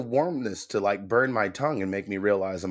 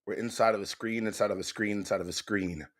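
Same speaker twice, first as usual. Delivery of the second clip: fading mock spooky echo; 2 semitones lower, 8 dB quieter than usual. Echoing spooky repetition.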